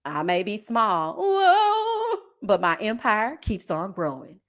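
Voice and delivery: lightly imitated tagline, low and slow; a singer. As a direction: recite it like a catchphrase, with a swooping whoa in the middle. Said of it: "Kandi gonna be".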